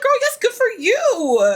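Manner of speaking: high excited shout of praise; cheering shout. Retold or imitated. Narrator cheering Lisa on in a high excited shout. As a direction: whoop it up for her.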